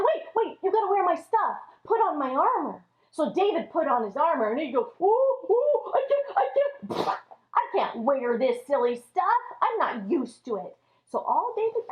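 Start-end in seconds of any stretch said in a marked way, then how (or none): 0.0-2.8 hasty king. Acted. Saul stops David. 5.0-10.8 uncomfortable whine. Acted. David struggles in armor.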